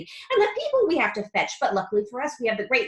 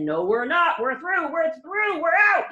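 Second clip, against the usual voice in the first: triumphant; 5 semitones higher, 6 dB louder than usual. A narrator's reading. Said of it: "Mister Wonka said".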